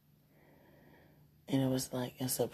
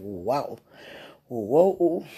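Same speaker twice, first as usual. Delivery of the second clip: surprised; 3 semitones lower, 7 dB louder than usual. Retold or imitated. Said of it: "I was like".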